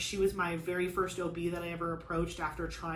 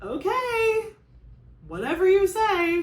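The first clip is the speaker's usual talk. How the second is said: crying; 12 semitones higher, 10 dB louder, slower than usual. Real, not acted. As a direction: voice breaking high and loud through tears. Crying while retelling giving in.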